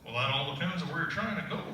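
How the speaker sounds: a lightly done Texan cat. Retold or imitated. Dad reading Alice to his kids, cat in a lightly voiced Texas accent. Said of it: "they wanted the cat to be from Texas".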